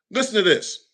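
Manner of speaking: hushed whisper, nearly voiceless. Real, not acted. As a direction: lean in and whisper it like a secret. Confiding aside to brother.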